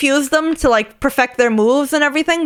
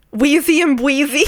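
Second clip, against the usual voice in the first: laughing. Real, not acted. Laughing while naming.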